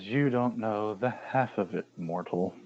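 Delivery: quiet, ominous divine voice; dark goddess voice. Acted. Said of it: "Morgan looks at you, Ivan, and says".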